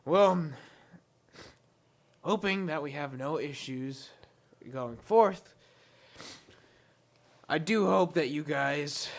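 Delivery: sly goblin leader voice; a hint of a smug hobgoblin; gravelly sly hobgoblin. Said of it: "he turns around, and he's like".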